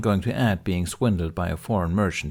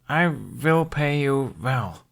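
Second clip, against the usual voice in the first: assuring; 6 semitones higher, much slower than usual. Acted. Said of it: "Hiccup assured her".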